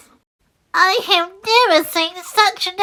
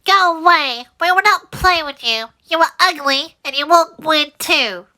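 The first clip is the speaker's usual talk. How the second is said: high, loud yelling ducklings; 11 semitones higher, 7 dB louder than usual. Acted. Ducklings yell at the ugly duckling, high and loud. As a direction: drive him off the playground. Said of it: "And they yelled".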